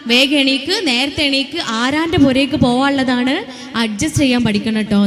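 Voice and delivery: bossy mother hurrying her daughter, lightly mocked; nagging mother. Speaker imitates mothers prodding young girls, mock scolding. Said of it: "ഉമ്മാരും പെൺകുട്ടിയൊക്കെ പറഞ്ഞു കൊടുക്കണത് എന്താ".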